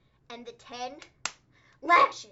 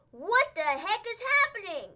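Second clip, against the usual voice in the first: high, loud, slowed commentator disbelief; imitating commentator; 7 semitones higher, 6 dB louder than usual. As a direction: stretch it out like a stunned announcer. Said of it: "J R on commentary is like".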